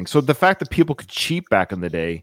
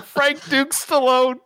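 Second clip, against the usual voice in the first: announcing nickname; 11 semitones higher, slower than usual. Real, not acted. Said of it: "coining a nickname".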